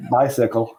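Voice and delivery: sudden sweet, laughing turn; laughing cute bicycle; cute sign-off. Retold or imitated. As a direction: flip from mock rage to cute. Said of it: "to cute".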